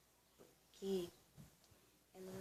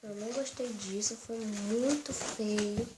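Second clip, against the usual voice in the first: put-on firm, louder scolding of a naughty child; pretend scolding; 8 dB louder, slower than usual. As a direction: tell the little girl off like a stern mom. Mãe repete a bronca. (bronca de mãe de brincadeira, mais alta)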